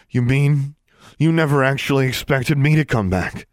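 high, loud disbelieving challenge; shocked disbelief. A narrator's reading. Alexandra confronting Darla, high incredulous outburst. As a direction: she can't believe she was left to die.

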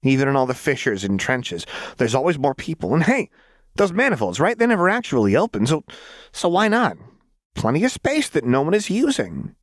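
put-on high, gleeful, unhinged girl's voice; a giddy troublemaker explaining a mad plan; manic Jinx. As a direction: bounce it up high with wild glee.

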